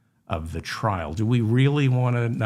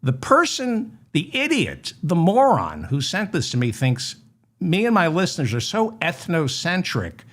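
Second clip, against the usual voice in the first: mock fury; 2 semitones higher than usual. Host ranting at the moron who sent the clip, hammed-up fury. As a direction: build a pompous fake tantrum at the idiot. Insulting the sender, escalating.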